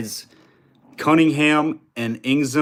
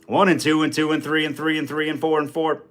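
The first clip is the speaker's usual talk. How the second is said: auctioneer rhythm practice; 4 semitones higher than usual. Shown as a demonstration. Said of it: "you gotta work into it".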